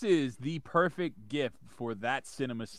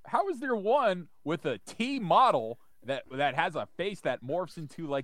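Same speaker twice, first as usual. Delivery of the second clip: incredulous; 5 semitones higher than usual. Retold or imitated. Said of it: "And you're like".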